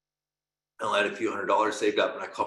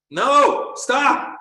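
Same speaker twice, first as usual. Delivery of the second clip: loud, much higher cry of no, stop; sharp stop; 10 dB louder than usual. Real, not acted. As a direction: cut yourself off hard. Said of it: "Makes me wanna throw up when I talk like that".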